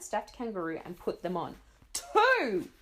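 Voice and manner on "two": shouted count. Acted.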